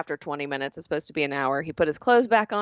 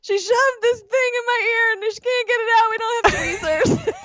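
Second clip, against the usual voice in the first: higher, lightly voiced worried woman; a touch of a flustered woman; 14 semitones higher, 5 dB louder than usual. Friend retelling the spa woman's words, lightly flustered. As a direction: tell it high and fast like the flustered attendant. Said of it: "retelling woman at float spa".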